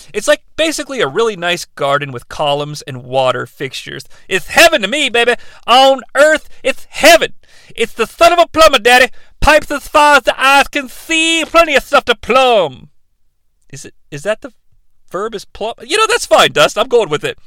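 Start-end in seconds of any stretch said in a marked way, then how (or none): 4.3-12.9 loud, higher wrestling-promo voice, shouting; Dusty Rhodes impression. Co-host as Dusty Rhodes cutting a promo on the recap, loud and high. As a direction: hype it like an old wrestling legend cutting a promo. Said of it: "Borsco's Dusty Rhodes".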